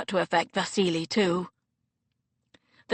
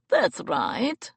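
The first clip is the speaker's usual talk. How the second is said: crowing; 3 semitones higher than usual. Acted. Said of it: "Vasily crowed".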